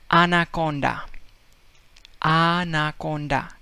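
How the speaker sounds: "anaconda" with all open ah vowels, Spanish style; Spanish accent. Retold or imitated. Teacher imitating Spaniard saying anaconda in a Spanish accent. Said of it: "he would say".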